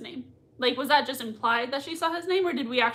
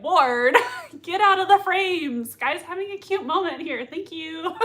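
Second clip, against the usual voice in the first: mock scolding; 5 semitones higher, 5 dB louder than usual. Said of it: "I'm like".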